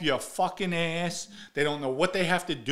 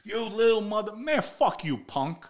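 retold angry outburst; 8 semitones higher than usual. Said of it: "he goes off even more".

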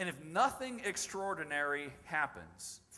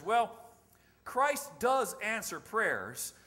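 slow, measured pastor's reassurance, imitated; qualified pastoral response; 3 semitones higher, 5 dB louder, much slower than usual. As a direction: answer deliberately, like a careful pastor. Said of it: "qualified pastoral response".

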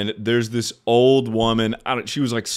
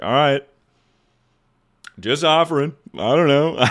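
higher, giggling through the words; laughing sheepishly; 6 semitones higher, 3 dB louder than usual. Retold or imitated. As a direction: laugh off the awkward rejection. Awkward offer refused.

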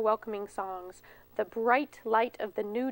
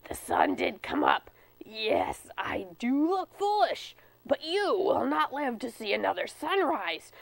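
mild bear growl. Acted. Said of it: "Bear growled".

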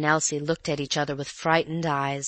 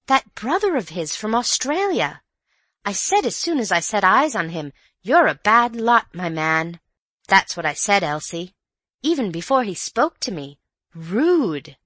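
higher, emphatic housekeeper's indignation; indignant gossip; 4 semitones higher, 5 dB louder than usual. A narrator's reading. Missus Stevens condemning the brother from Australia, indignant. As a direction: pronounce judgement with rising pitch and punched words.

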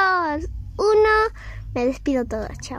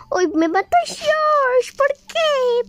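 surprised; 9 semitones higher, much slower than usual. Real, not acted. Killed by another player.

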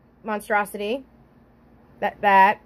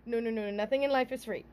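laughing. Real, not acted. Laughing at own joke.

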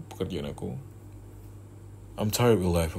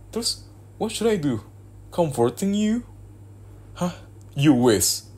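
high, sneering sarcasm, louder at the end; mocking scorn; 10 semitones higher, 5 dB louder than usual. Mocking the girlfriend's wish to be comforted, high and sneering. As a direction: scoff at the idea of comforting her.

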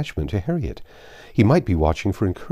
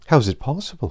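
higher-pitched, startled question; astonished cry; 8 semitones higher, faster than usual. A narrator's reading. Emma to the man who already knows the news, astonished cry. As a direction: exclaim it in disbelief, voice lifted. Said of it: "cried Emma".

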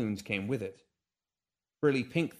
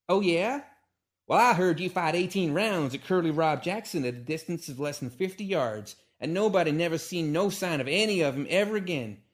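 high, loud shrieking tirade; Calamity shrieks an insult into Hiccup's face; 6 semitones higher, 5 dB louder than usual. Acted. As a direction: let all civility go and shriek at him. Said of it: "she shrieked".

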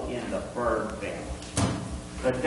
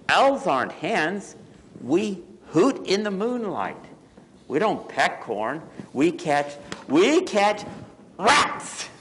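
mildly cross storybook owl, pitch mounting; 7 semitones higher than usual. Acted. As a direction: protest firmly, climbing to the last word. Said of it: "Owl got cross".

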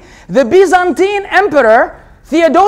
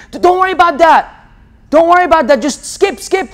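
higher, dismissive mock reassurance; mock brush-off; 3 semitones higher than usual. Mocking a Christian who dodges the question, dismissive. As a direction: wave the question away, mocking.

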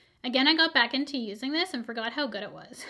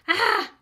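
sudden loud cry of shock; sharp high yelp of pain; startled yelp; 8 semitones higher, 9 dB louder than usual. Real, not acted. Shocked by her hand.

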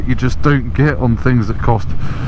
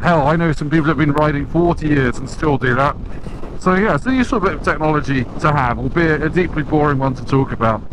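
wind noise; 4 dB quieter than usual. Real, not acted. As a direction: speak against roaring wind. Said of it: "You probably can't hear me because of all the wind noise".

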